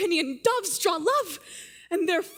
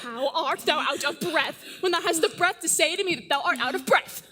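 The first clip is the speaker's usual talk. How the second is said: laughing; 2 semitones lower, faster than usual. Acted. Juliet teases breathless nurse.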